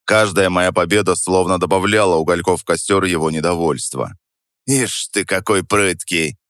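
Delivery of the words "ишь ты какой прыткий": медленно, ворчливо себе под нос; пробурчи недовольно; бурчание. Acted. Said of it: "пробурчал он". (ворчливый хриплый мужик)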